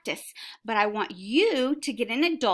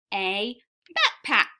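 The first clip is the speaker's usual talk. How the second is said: a bit louder, lifted exclamation; excited read-aloud of the last word; with excitement; 3 dB louder, slower than usual. Shown as a demonstration. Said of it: "You say that with excitement".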